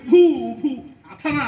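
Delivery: loud, high jeer; explosive scornful outburst; scornful insult. Acted. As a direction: hurl the abuse with contempt. Quarreller hurls insult at questioner.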